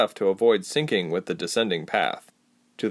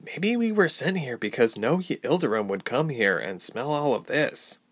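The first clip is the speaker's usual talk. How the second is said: put-on higher-pitched young traveler, doubtful; a touch of higher character voice; lightly voiced Ilse; 4 semitones higher than usual. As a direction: lightly voice the disgusted heroine, pitched up.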